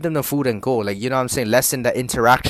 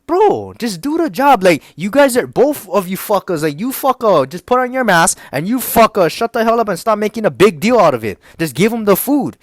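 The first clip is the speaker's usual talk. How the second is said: exasperated, higher-pitched venting; mildly heated, raised-pitch rant; pissed-off rant; 6 semitones higher than usual. Retold or imitated. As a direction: retell a fed-up outburst at coworkers. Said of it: "it was pissing me off".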